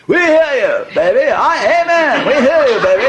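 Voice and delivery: high, loud call-and-response shouts; congregation responding. Retold or imitated. Imitating the congregation answering the preacher, high loud shouts. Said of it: "congregation was saying".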